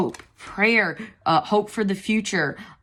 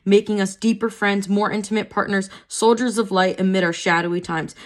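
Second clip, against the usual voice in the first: measured, slightly raised reading voice; reading aloud. Acted. Reading the card's guidebook text to viewers, measured reading voice. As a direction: read the guidebook passage evenly.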